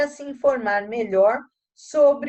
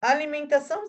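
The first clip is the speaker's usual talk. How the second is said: hiccuping while reading; with hiccups; 3 semitones higher than usual. Real, not acted. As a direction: hiccups breaking the words. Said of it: "Eita, tô com soluço".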